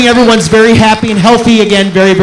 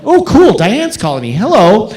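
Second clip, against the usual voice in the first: high lilting "oh, cool", then easing down; acting out a happy phone pickup; delighted retold reaction to a caller; pleasantly surprised; 3 semitones higher than usual. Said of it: "I'm like".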